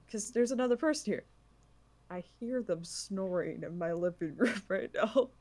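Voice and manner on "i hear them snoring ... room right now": stifled giggles. Real, not acted. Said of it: "trying not to laugh".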